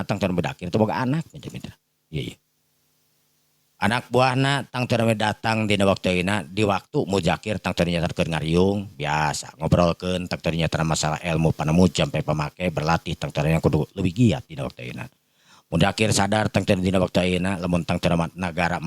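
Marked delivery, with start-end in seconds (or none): none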